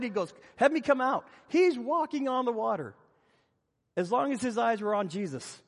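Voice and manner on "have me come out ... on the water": higher, eager acted Peter; keyed-up, pitched-up eagerness; excited. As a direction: imitate an excited disciple begging to join in. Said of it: "He gets all excited".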